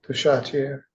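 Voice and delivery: Duchatelier tried with "sha-t" in the middle; attempted French pronunciation. Shown as a demonstration. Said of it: "it's really pronounced Duchatelier".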